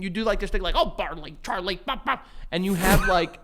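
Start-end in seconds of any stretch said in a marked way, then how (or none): 0.8-2.3 lightly imitated doting dog-dad chatter; playful pet voice. Friend imitating how owner plays with his dog, playful. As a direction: tease the dog with silly affectionate babble. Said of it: "playful voice with him".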